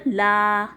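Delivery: لا with a long drawn aa; stretched لا; long "laa" with alif. Shown as a demonstration. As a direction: hold the vowel in لا long, sounding the alif. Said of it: "اس کا الف کا آواز".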